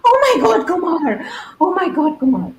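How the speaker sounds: high, loud calls of his name; excited welcome. Real, not acted. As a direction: cheer the guest onto the stage. Host greets guest walking on stage.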